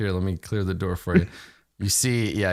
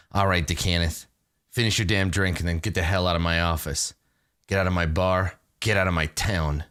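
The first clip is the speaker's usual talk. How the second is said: lower, controlled order to leave; lightly voiced crime boss, pitched down; low menacing boss; 4 semitones lower than usual.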